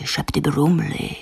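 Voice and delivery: slow unvoiced whisper; whispered spell. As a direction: breathe the magic words, slowly. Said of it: "zašeptala něco jako šepty brumly".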